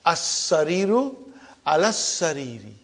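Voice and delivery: As-sariru then alas sariri, each syllable clear; careful Arabic pronunciation. Shown as a demonstration. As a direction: model the phrase for the class to copy. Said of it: "how I am pronouncing?".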